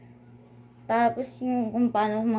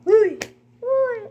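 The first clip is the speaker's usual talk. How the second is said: loud high uy, called out twice; playful loud high call; teasing shout; 9 dB louder than usual. Real, not acted. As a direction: shout it like you're calling out a friend. Teasing after saying she's kind.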